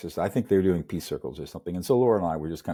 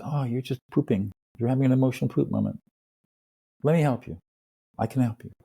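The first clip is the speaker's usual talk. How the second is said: lightly acted parent-to-baby tone, a bit higher; gentle reassurance; 4 semitones higher than usual. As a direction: soothe them as you would a baby. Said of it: "it's very gentle".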